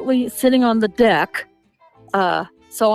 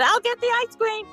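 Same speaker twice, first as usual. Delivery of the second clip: retold offer; 9 semitones higher, 3 dB quieter than usual. Retold own offer, brightly pitched.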